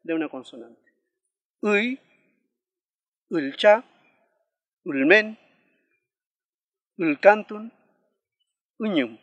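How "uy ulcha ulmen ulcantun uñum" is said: Uy, ulcha, ulmen, ulcantun, uñum loud and spaced out, each on the sixth vowel; word-initial sixth vowel. Shown as a demonstration. Teacher reviews words for learners to copy, careful model of Uy, ulcha, ulmen, ulcantun, uñum. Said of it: "Vamos a repetir una vez más".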